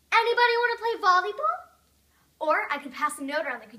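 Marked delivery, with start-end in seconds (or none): 0.1-1.7 high, loud call across a crowd; yelled invitation. Acted. Daydreaming of disrupting the sermon, yelled out loud. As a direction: holler it out to everyone. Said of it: "jumped to my feet and yelled".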